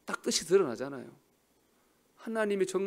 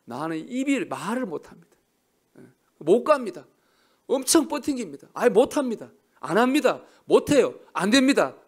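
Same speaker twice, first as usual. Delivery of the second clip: higher, louder stubborn refusal; loud whiny Moses refusing; 4 semitones higher, 7 dB louder than usual. Retold or imitated. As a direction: dig in like a balking servant. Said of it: "모세가 뭐라 그랬습니까?".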